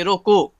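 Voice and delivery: "रोको" cut off as a word alone; रोको read separately. Shown as a demonstration. Teacher recapping the split reading, "रोको" standing alone. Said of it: "अलग-अलग करके पढ़ोगे".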